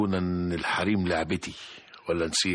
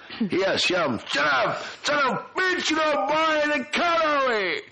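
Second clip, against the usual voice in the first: a much higher, hammed-up fake American accent; high-pitched mock American accent showing off for the boss; much slower than usual. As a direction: bluff through an American accent with film slang. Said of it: "Show me the American accent".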